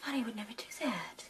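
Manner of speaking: soft, almost whispered denial; hushed disbelief. Acted. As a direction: say it under your breath, stunned. Sister-in-law refusing to believe the news.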